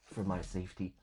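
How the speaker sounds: muffled behind a mask; talking through a face mask. Real, not acted. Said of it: "My voice will be a little bit muffled because I'm wearing a mask".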